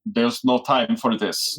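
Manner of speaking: put-on slow, stern German accent; deadpan German accent. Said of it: "that's the worst German accent ever".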